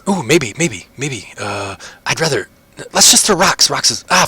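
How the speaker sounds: high, excited betting voice; rushing to lay a bet on the fight; eager gambler. Acted. Prisoner placing bets on the orc fight, excited and high.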